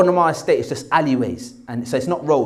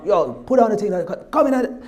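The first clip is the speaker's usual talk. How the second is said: higher-pitched Jamaican patois mum; yardie Jamaican mum; 4 semitones higher than usual. Retold or imitated. Son showing how mum normally talks, yardie Jamaican accent. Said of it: "my mum's proper yardie, ghetto Jamaican".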